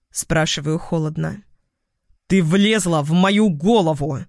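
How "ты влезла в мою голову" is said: a touch of an angry near-shout; почти крик. A narrator's reading. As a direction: push it up toward a shout without going all the way. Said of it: "Он почти кричит". (почти кричит от злости)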